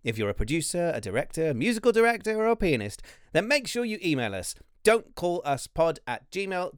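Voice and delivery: upbeat podcast announcement read. Acted. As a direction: read the promo to the listeners.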